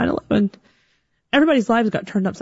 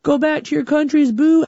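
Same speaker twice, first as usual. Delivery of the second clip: hostile jeering; 8 semitones higher, 4 dB louder, slower than usual. Retold or imitated. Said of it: "the cash register was like".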